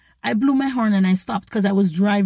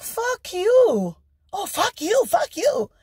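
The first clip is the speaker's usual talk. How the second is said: angry curse; 12 semitones higher, slower than usual. Retold or imitated. Cursing back at the driver.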